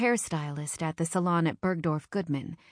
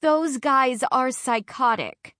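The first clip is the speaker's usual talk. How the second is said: slow, tearful and higher; crying friend, slow and a bit louder; 7 semitones higher, 6 dB louder, slower than usual. Acted. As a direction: sob it out in disgust. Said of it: "she sobs".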